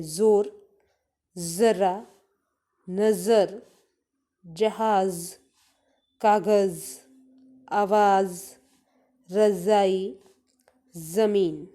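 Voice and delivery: each word read with the ज़ stretched, dwelling on "ज़" as a buzzing z; teacher drawing out the "ज़" in every word; drawn-out ज़ sound. Shown as a demonstration. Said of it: "तो खींच के उच्चारण करते हैं". (ज़ को खींचकर साफ़ उच्चारण)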